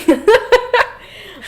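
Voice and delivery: loud, high real laugh; high burst of laughter. Real, not acted.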